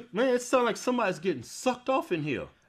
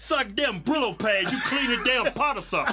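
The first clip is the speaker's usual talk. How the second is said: laughing; 3 semitones higher than usual. Real, not acted. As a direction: crack up while teasing. Mocking scratchy beard.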